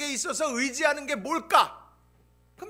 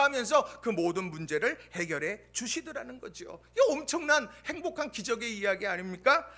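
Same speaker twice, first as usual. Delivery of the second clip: ordinary delivery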